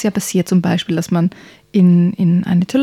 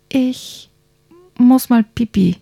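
put-on childlike prince; 4 semitones higher, slower than usual. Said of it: "meinte er leise".

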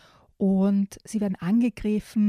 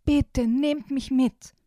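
slow, higher begging little chameleon, lightly voiced; pleading little chameleon; 5 semitones higher, 3 dB louder, much slower than usual. Chameleon begging the birds to take him along, mild pleading. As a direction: draw it out like a small child begging.

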